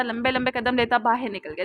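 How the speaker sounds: usual speaking voice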